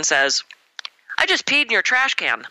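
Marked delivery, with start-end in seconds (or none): 1.2-2.5 deadpan. Retold or imitated. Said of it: "completely deadpan".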